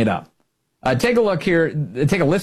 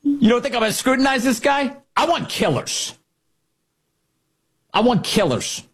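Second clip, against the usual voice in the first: higher, tough-guy Pete Hegseth voice; Hegseth impression; 9 semitones higher than usual. Host doing Hegseth on immigration, high and tough. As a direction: growl it like a hard-line defense chief. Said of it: "a variation on what Pete Hegseth might say".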